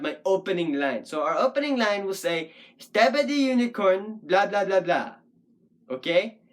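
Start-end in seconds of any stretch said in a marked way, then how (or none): 2.8-5.1 Stabby the unicorn in a bouncing verse beat, blah filling the rest; sing-song rhythm. Shown as a demonstration. Puppet poet trying an opening line, Stabby the unicorn in sing-song rhythm. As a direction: beat out Stabby the unicorn, then even blahs. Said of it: "that'll be our rhythm".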